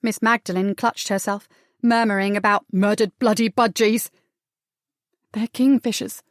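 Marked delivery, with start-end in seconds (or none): 5.3-6.2 shaky voice. Acted. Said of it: "in a shaky voice".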